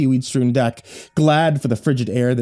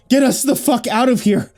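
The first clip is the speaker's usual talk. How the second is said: yelling; 9 semitones higher than usual. A narrator's reading. Thomas yelling at captain.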